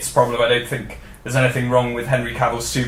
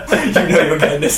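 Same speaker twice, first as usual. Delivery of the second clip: laughing; 3 semitones higher than usual. Real, not acted. Laughing at a running joke.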